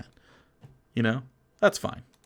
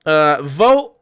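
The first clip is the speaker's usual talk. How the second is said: mock parent offering choices; 6 semitones higher, slower than usual. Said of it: "your life will be a lot easier if you're like".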